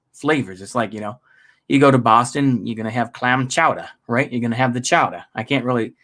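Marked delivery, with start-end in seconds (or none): 3.1-3.9 attempted Boston accent, r dropped in "chowder"; bad Boston accent. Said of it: "I can't do a good Boston accent". 4.7-5.2 put-on rough Boston accent, "chowder" ending in "ah"; bad Boston accent. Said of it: "I can't do a good Boston accent".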